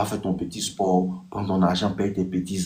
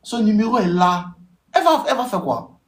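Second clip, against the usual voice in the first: excited rhetorical question; 12 semitones higher, 4 dB louder than usual. Real, not acted. High, louder rhetorical push.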